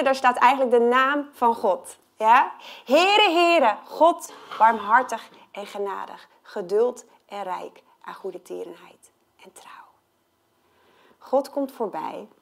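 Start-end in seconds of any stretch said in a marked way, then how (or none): 2.8-6.3 a hint of a divine herald; proclaiming God. God proclaiming his name. 6.4-9.9 hushed whispered scripture. Real, not acted. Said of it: "whispered scripture".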